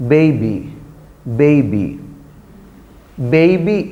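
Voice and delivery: put-on baby with a gliding 'ay' in the first syllable; teacher's model of "Baby" with an ay glide; diphthong model. Shown as a demonstration. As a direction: say "Baby" carefully, vowel gliding from e to i. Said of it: "how do you, uh, pronounce it".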